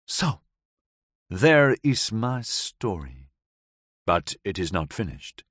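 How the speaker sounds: put-on light foreign accent, woman recounting; Gabriella's voice. Gabriella tells the narrator of that night, lightly accented. Gabriella ends her tale.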